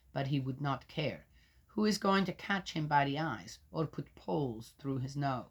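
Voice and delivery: solemn public reading of Job; scripture reading. Acted. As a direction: proclaim it like a lector. Reads scripture.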